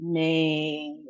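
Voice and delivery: may-shun with "may" stretched, then a gap; long A. Shown as a demonstration. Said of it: "it's a long A sound".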